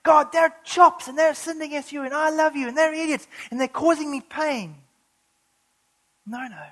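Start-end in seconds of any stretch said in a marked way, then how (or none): 0.0-4.8 louder, exasperated griping at God; a hammed-up grumbling prayer; mock complaining prayer. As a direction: whine about the people to God. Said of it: "He could have been praying".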